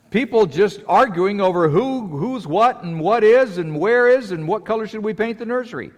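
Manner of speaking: high, loud, amused rant about bickering; mocking squabbling churchgoers, high and loud; animated mockery. Real, not acted. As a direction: poke fun at petty church fights. Mocking church members arguing.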